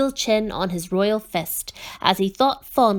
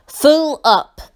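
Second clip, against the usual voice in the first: grunting; 7 semitones higher, 7 dB louder than usual. A narrator's reading. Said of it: "grunted the Undersecretary".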